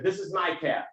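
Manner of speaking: low Texan cab driver impression; deep Texan voice. Cab driver settling a passenger in, in a low Texan voice. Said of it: "I won't get as low as he can go".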